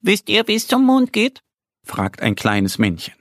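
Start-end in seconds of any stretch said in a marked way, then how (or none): 0.0-1.4 high, gentle little moon man; much higher, delicate little man; tender little voice. Acted. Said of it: "eine zarte Stimme".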